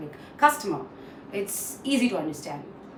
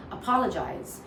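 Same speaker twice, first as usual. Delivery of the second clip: apolo-GIZE, weight moved to the end; last-part stress. Shown as a demonstration. Teacher shows a common slip, stress on the ending. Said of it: "we feel that the last part is stress".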